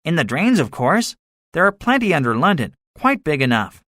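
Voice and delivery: confident gunner. A narrator's reading.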